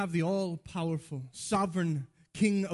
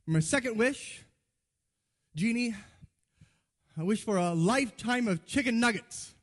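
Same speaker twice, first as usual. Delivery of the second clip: higher, mock-solemn declaration; wish announcement; 5 semitones higher than usual. Friend asks the genie for chicken nuggets, mock-grand announcement. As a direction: announce it with big pauses, pitched up.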